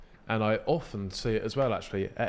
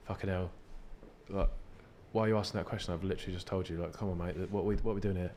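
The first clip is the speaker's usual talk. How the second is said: weary inner grumble; 3 semitones lower, 6 dB quieter, faster than usual. Retold or imitated. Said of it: "there would be a build-up of".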